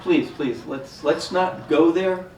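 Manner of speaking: loud, urgent calling out; urgent shouting. Acted. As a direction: shout him down fast. Doctor stops Eric's outburst.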